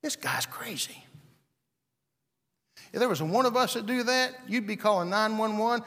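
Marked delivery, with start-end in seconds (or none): 0.0-1.0 unvoiced, secret aside; hushed whisper of disbelief. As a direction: whisper it like a gossip. Onlookers mutter.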